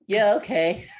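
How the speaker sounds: lightly acted high, loud agreement; mock-eager movie quote; eager lad. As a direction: go high and punchy as the keen lad. Acting out the lad's eager agreement.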